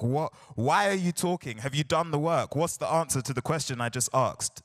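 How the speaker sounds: strict teacher grilling a chatty student; mock strict teacher. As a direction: play a teacher catching a student out. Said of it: "delivers when you're like".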